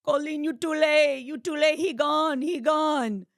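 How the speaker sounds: high, loud broken-English wail of a crying mother; hammed-up sobbing mother on the phone; imitating sobbing mom. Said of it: "my mom is sobbing".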